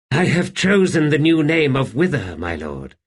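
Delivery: eerie, amused undead voice; an old ghost savouring its own tale; wraith Wither. A narrator's reading. Wraith to Kettle, amused and eerie.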